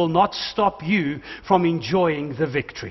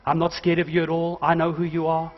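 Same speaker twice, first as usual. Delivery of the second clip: calm reply; 3 semitones lower, 3 dB quieter than usual. Acted. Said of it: "The gentleman calmly looked up and said".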